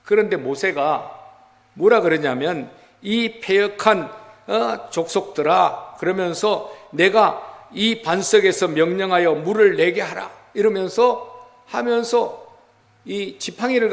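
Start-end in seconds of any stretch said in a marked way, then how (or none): 3.0-6.0 mildly acted angry rebuke of the people. Preacher voices Moses scolding the rebellious people, mildly angry. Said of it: "너무 분노했죠". 6.9-10.3 retold angry order, a touch raised; angry command. Preacher voices Moses ordering water from the rock, mildly angry. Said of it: "너무 분노했죠".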